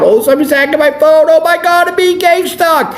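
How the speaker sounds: high, fast, mocking paranoid voice; a lightly done mocking whine; squeaky mock panic about being watched; mocking whiner. Mocking people who complain about it.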